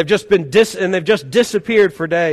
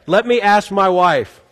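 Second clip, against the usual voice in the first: husband's dodge; slower than usual. Retold or imitated.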